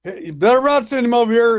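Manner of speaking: high-pitched imitation of a man yelling; mock yell. Guy refusing a visitor on the phone, mock yell. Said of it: "I heard the guy yell on the phone".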